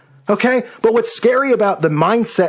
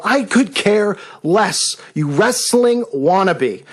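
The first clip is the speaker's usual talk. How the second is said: contemptuous jab; much slower than usual. Real, not acted. Scornful jab at rival YouTuber.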